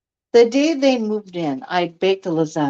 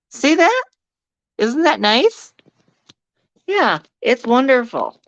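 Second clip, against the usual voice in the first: dry sarcastic praise; mildly sarcastic "wonderful"; 4 semitones higher than usual. Real, not acted. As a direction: say it pretending to love it. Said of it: "I'm being sarcastic".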